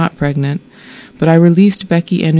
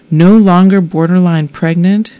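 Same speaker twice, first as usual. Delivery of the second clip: louder, rising, incredulous echo; stunned disbelief; 2 semitones higher, 5 dB louder than usual. Retold or imitated. Woman echoing the nurse in shocked disbelief. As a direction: repeat it as if you can't believe it. I thought I might fall over.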